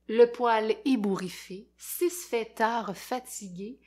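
put-on expressive read-aloud for kids; lecture d'album. A narrator's reading. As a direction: tell it like a lively storyteller to children. Lit un album aux enfants. (lecture animée pour enfants)

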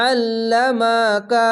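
আল্লামাকা with a heavy, squeezed ain; throaty ain in আল্লামাকা; throat-pressed ain. Shown as a demonstration. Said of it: "গলা চিপে পড়বেন".

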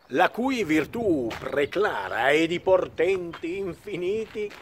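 theatrical mountebank pitch; quack doctor. Acted. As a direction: sell the miracle cure grandly. Recites Dulcamara aria text. (come un ciarlatano teatrale)

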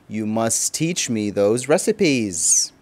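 slow, gushing compliment; flattering. Retold or imitated. Guest flattering the mother-in-law's cooking. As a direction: lay the flattery on slowly. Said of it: "more flattering and complimentary".

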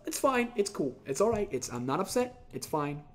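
telling yourself it's fine; resigned. Real, not acted. Pretending not upset, trailing off.

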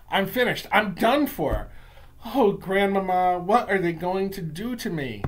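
put-on trapped child pleading to grandmama; panicked despair. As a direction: voice rising in alarm. Boy panics, trapped by witches.

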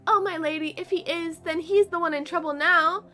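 a hint of a fussy little rat; lightly voiced polite rat. Rat telling the lady about a black cat, lightly voiced.

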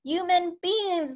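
high, slow, loud giant yell; giant's yell. A narrator's reading. Giant yelling at the soldiers, loud and high. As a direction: bellow it like a hungry giant. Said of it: "the flesh lump eater yelled".

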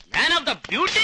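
boastful proclamation. Acted. Groom boasting of his looks, showy proclamation. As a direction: proclaim yourself with a rising flourish. Boastful self-introduction as beauty.

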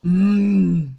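put-on low slurred drunk voice; sluggish, drunk and lazy; Homer Simpson. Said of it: "You're freaking Homer Simpson".

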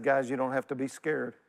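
lightly voiced forgiving brother; reassuring Joseph. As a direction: reassure frightened brothers tenderly. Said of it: "He said".

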